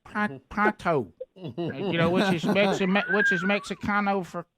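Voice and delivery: put-on stuttering, slurred drunk; lightly voiced drunk Gary; drunk guy impression. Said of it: "your drunk guy impression".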